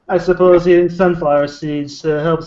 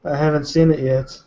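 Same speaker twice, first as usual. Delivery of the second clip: talking while chewing seeds; words round a mouthful of seeds; mouth full. Real, not acted. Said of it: "Are you eating boiled peanuts".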